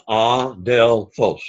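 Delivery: ADELPHOS slowly in three separate syllables, ah-del-phos; sillabato. Shown as a demonstration. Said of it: "That has three syllables".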